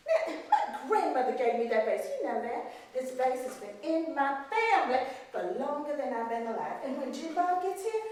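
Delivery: a hint of a cold, scolding mistress; stern plantation mistress. Mistress scolding the maid over the broken vase, coldly.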